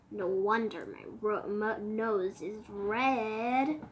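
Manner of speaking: shivering, stuttering with cold; teeth chattering. Acted. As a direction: chatter through the words with cold. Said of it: "teeth chattering".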